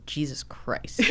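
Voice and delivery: unvoiced exasperated whisper. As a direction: hiss it in dismay. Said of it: "and I'm like".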